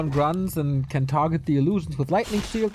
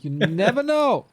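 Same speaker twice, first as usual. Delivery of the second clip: slow, higher, mysterious tease; 6 semitones higher, 3 dB louder than usual. Shown as a demonstration. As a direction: draw it out like a secret agent. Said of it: "I'm a man full of mysteries and surprises".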